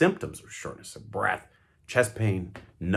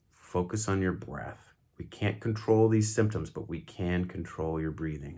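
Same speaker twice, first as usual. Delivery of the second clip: calm coaching; 2 semitones lower than usual. Shown as a demonstration. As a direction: guide them gently to breathe. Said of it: "still hand on the shoulder. Say".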